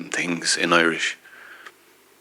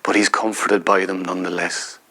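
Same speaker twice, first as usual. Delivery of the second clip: measured, unhurried poetry reading; reading a poem aloud to an audience; poem recital. Acted. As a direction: let each image land as you read. Recites his own poem.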